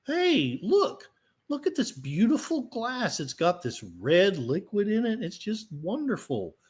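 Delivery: very high, starry-eyed mock rapture; cult follower voice. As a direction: play a blissed-out believer showing off the glass. Acting a Kool-Aid drinker.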